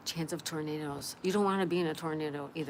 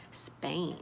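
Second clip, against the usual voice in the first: Spain whispered with no voice at all. Shown as a demonstration. Musing about Spain, whispered to herself. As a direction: breathe the word Spain out unvoiced.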